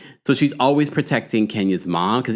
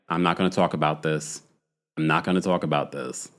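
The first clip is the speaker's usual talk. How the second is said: low, soft imagined reply; understated refusal; 6 semitones lower, 5 dB quieter than usual. Retold or imitated. Aunt Lori avoiding Kenya's question, quietly closed off. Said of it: "Aunt Lori's face is sort of like".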